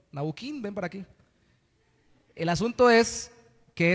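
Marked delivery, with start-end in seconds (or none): 0.1-1.1 put-on calling a child. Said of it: "Cómo le diría usted a un niño".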